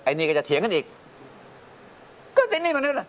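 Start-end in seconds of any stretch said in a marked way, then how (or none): 1.6-3.1 เสียงเด็กแหลมสูง ลากช้าๆ; ล้อเสียงลูกฟ้องกันแบบยืดๆ; mimicking the kids. เลียนเสียงลูกทะเลาะกัน. (พ่อเล่าให้ฟังโดยเลียนเสียงลูกเถียงกัน แหลมสูงลากยาว)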